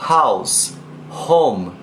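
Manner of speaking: "house, home" com H inicial soprado; aspirated h. Shown as a demonstration. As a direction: sopre o H de "home". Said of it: "o som do H que começa". (H aspirado inglês)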